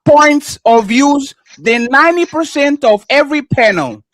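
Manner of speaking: emphatic, point-by-point read-out; reading aloud. Real, not acted. Debater reading a statement back to his opponent, emphatic read-out. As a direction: read it back as evidence against them. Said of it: "I'm going to read it again".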